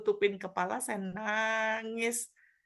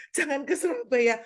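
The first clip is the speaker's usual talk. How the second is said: firm command; 5 semitones higher, 6 dB louder than usual. Retold or imitated. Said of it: "pindah Surabaya".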